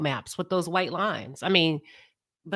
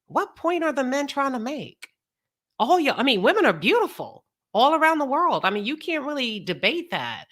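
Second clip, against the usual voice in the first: husband's confusion; 4 semitones higher than usual. Retold or imitated. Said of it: "you know what he said".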